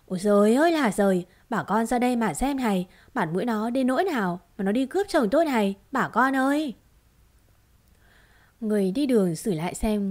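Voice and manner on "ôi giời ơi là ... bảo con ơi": wailing accusation. Acted. Woman wails to crowd, accusing.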